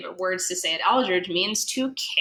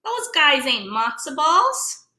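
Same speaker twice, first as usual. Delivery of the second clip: much higher, mocking voice; scoffing pickles; 9 semitones higher, 3 dB louder than usual. Pickles mocking the gefiltes at the deli, high. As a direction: sneer like a rude pickle. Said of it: "the pickles are saying".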